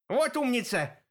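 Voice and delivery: high crone's cry; excited hag shouting; shouted praise. A narrator's reading. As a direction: cry out in delight. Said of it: "закричала Злоба".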